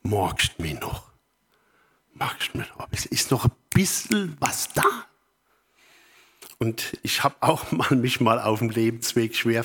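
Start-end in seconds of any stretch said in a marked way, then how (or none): 0.0-5.0 southern German lilt, rising at the end; southern German dialect. Acted. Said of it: "wie der Süddeutsche sagt".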